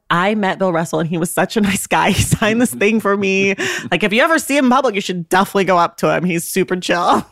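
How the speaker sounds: lightly acted gushing fan; imitated excited fan. Fan telling others about meeting his hero, mildly gushing imitation. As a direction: gush quickly, then stretch out the last words. Acts out the fan bragging later.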